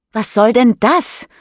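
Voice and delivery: an indignant reproach; angry. Acted. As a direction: snap it at him. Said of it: "fragt sie böse".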